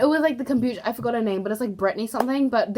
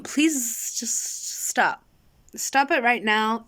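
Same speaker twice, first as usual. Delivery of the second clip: whispered stop; much slower than usual. Real, not acted. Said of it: "I'm very aware that I used".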